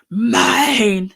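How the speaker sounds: loud possessive growl of "Mine". Shown as a demonstration. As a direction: growl "Mine!" like a claiming beast. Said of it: "doesn't sound like a growl".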